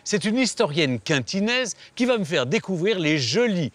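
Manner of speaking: documentary narration. Acted. TV documentary voiceover.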